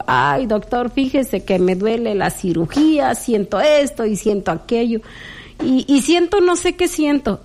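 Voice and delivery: rising to a high fretful end; complaining to the doctor. Retold or imitated. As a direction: moan to the doctor about every ache. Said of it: "voy y le digo".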